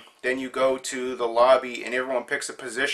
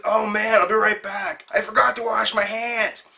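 imitating the toilet guy; 7 semitones higher than usual. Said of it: "he goes".

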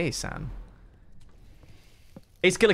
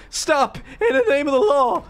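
high, loud hammed-up command; mock police shout; 10 semitones higher, 4 dB louder than usual. Streamer joking after laughing, mock police shout. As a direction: shout it like a cartoon cop.

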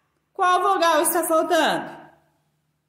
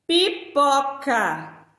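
slow model word; slower than usual. Shown as a demonstration. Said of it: "Vamos completar a palavrinha pipoca".

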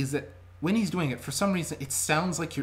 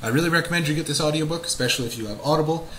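hurrying; 4 semitones higher, 4 dB louder, faster than usual. Real, not acted. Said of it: "so I will be quick".

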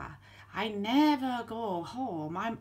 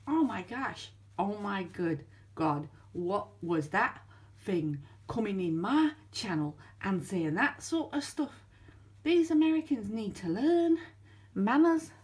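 indignant Ratty; 4 semitones lower than usual. Acted. Ratty complaining about the American intruder, shocked and indignant. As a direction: huff about manners.

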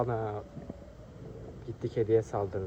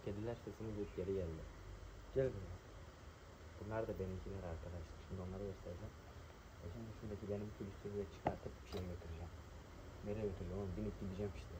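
whispering; 2 semitones lower, 15 dB quieter, faster than usual. Real, not acted. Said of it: "fısıldayarak konuşuyorum".

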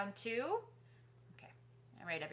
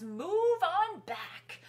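whispered driver line; 11 semitones higher, 8 dB louder, much slower than usual. Pretend. The bus driver's line to the kids, whispered. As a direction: breathe it like a secret. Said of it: "the driver on the bus says".

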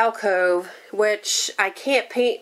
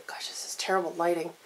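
breathy whispered aside; whispering; 3 semitones lower, 10 dB quieter than usual. Real, not acted. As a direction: mutter it under your breath. Aside about bad lighting.

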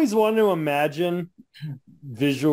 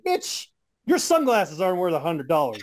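mock shout. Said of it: "I wanted to be like".

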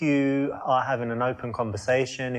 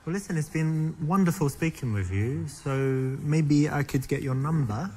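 Afrikaans-tinged accent; 3 semitones higher than usual. Real, not acted. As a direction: let a hint of Afrikaans colour the English. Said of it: "Afrikaanse sim of zo".

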